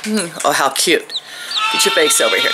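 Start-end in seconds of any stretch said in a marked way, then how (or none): 1.7-2.5 very high coaxing call. Real, not acted. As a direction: coax the chick up in a tiny voice. Baby talk to a chick.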